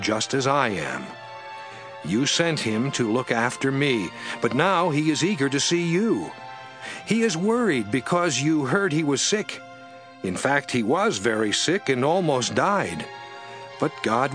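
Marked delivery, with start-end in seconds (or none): none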